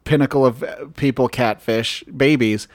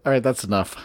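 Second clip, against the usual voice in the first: chewing while talking; mouth full; 6 semitones lower than usual. Real, not acted. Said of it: "mouth soundy".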